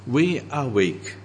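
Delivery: slow, dry sarcasm on each we and you; mock the Corinthians' pride, slowly; sarcastic. Paul rebuking the proud Corinthians, slow and sarcastic. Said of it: "Can you hear the sarcasm?".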